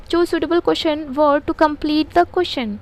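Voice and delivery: very slow, deliberate reading; slow dictation. Shown as a demonstration. Teacher reading the exercise instruction aloud to the class, slowly. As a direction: read each word for pupils to copy.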